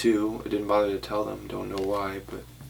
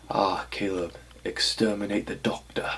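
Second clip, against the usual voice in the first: lightly voiced, badly done Davros impression; a half-hearted Dalek-master voice, barely off his own; terrible Davros accent. Reading Davros's autograph aloud to viewers, lightly mock villain voice. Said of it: "That was a terrible accent".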